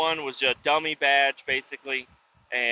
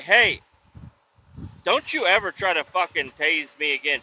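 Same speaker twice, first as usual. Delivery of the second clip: retold angry warning; 2 semitones higher than usual. Confronting guard who tased him.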